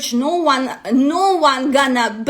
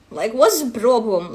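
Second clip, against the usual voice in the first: ordinary delivery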